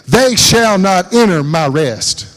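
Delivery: slow pronouncement from the pulpit; God's wrathful oath. Acted. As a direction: proclaim it like a stern oath. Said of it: "He's swearing in his wrath".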